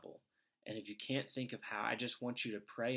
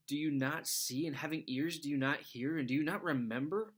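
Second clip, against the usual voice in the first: steady Bible reading voice; scripture reading. Acted. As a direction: read the gospel passage clearly to listeners. Reads scripture passage aloud.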